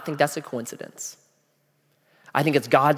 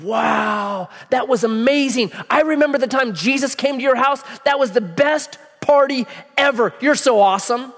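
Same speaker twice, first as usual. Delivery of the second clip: high, gushing party praise; gushing neighbors; 7 semitones higher than usual. Acted. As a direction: rave like impressed guests. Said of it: "She wanted all the neighbors to know".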